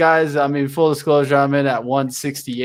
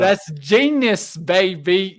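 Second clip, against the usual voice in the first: crypto bro; 3 semitones higher, much slower than usual. Acted. Shows off his stock.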